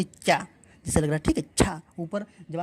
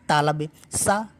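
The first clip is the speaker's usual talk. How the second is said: slow sound demo; much slower than usual. Shown as a demonstration. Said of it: "तालब से बोला या".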